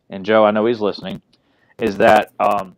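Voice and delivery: glitchy robot voice; choppy robot-voice audio. Real, not acted. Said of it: "let me fix your robot voice".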